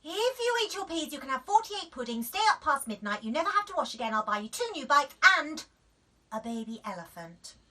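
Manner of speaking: high, loud, fast bribes; frantic mum. A narrator's reading. Mum frantically bribing Daisy. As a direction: gush out the list. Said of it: "said Daisy".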